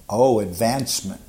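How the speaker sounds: a mild dry ironic aside; wry. Retold or imitated. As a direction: say it dryly, with hidden irony. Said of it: "said very wryly, dryly".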